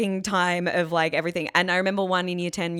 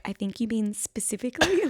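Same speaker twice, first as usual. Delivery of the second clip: mock correction; 4 semitones higher than usual. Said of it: "people would be like".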